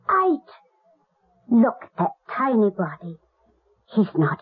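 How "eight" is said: shocked disbelief. Acted. Disbelief at the boy's age.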